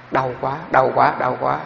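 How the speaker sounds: slow, understated moan of pain; imitated moaning. Teacher imitating people who moan when pain comes, mock moaning. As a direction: mildly imitate someone groaning in pain, drawn out. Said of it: "mình rên, mình la".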